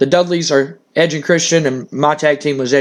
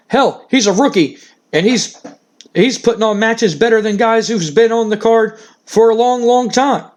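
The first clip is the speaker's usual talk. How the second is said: insistent praise; 4 semitones higher than usual. Acted. Hyping Kurt up to his daughter.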